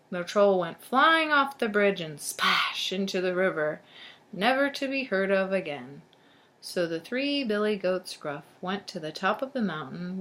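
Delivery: put-on lively storybook narration to children; storyteller reading aloud; story read-aloud. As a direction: read it out clearly for young listeners. Reads a tale to children.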